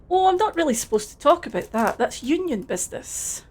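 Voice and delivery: put-on Scottish accent, friendly and a bit overdone; terrible Scottish accent. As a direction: play it as a cheery Scottish lad in a Scottish accent. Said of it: "please enjoy my terrible Scottish accent".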